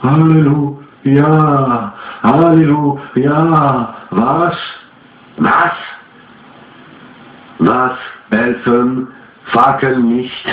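high, drawn-out otherworldly chant; slow eerie spirit voice from beyond; the owl spirit speaking through the medium; ghostly owl spirit. A narrator's reading. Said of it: "La chouette parut parler".

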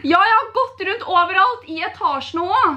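putting on a tearful, worried voice; mock distress for a prank; fake crying. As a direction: pretend to be near tears. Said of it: "Jeg trodde jo du grein".

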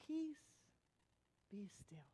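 soft, dropping to a whisper; pause, then breathe out the last words very low; hushed command. Acted. Jesus stilling the storm, hushed command.

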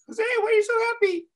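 put-on high-pitched little girl voice; little Julie asking. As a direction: pipe up like a small child. Little Julie asks him in the story.

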